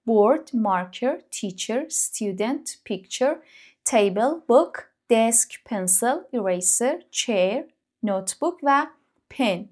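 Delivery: each English word spoken slowly and apart; slow word list. Shown as a demonstration. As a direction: read the list slowly for learners to copy. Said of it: "این سیزده تا واژه". (آهسته و شمرده، کلمه به کلمه)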